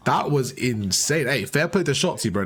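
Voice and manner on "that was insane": incredulous. Real, not acted. Reacting to amazing play again.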